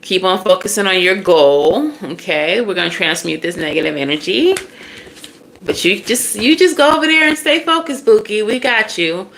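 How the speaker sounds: put-on soothing, coaxing ancestors calling her baby; reassuring ancestors. Ancestors reassuring their baby, tender and coaxing. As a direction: comfort the child and send her off to focus. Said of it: "And so they're saying".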